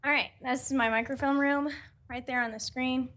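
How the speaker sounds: panting after running; breathless, catching her breath. Real, not acted. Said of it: "Sorry, I'm out of breath".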